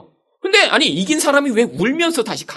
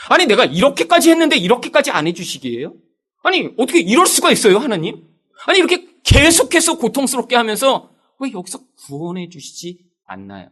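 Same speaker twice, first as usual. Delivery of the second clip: angry prayer; 4 semitones higher than usual. Retold or imitated. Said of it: "기도만 하면 화가 나는 거예요".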